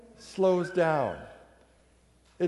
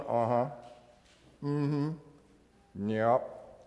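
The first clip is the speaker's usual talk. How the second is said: distracted husband; 8 semitones lower, 8 dB quieter, much slower than usual. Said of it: "He's going".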